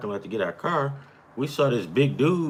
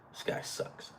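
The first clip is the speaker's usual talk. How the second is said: whispered under the breath, much softer; muttered gripe; 16 dB quieter than usual. Real, not acted. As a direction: grumble to yourself at the player. Grumbling at the game on screen.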